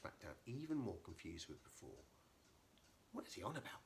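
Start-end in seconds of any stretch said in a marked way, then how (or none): 3.1-3.8 puzzled breathy whisper. Acted. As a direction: whisper it, baffled. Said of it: "whispered Toto".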